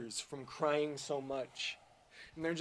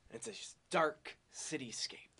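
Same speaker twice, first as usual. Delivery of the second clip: whispered narration. Acted. Dramatic commercial narration.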